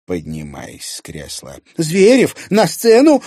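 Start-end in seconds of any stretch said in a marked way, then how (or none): 1.8-3.2 high, loud stage call; urgent pitched-up shout. A narrator's reading. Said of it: "послышался крик Маши Коневой".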